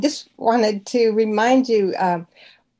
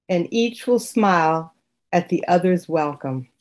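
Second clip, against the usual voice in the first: poem reading. Real, not acted. Student reading a poem to the teacher, gentle. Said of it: "if I could just read the first four lines".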